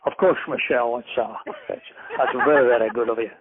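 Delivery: author shows off his Connery for the host; Sean Connery impression. Author obliges the interviewer with a lightly done Sean Connery voice. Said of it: "I can do Sean Connery for you".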